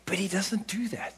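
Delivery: unvoiced hushed aside; whisper. Real, not acted. Preacher whispering the point to the congregation. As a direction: drop to a whisper to draw them in.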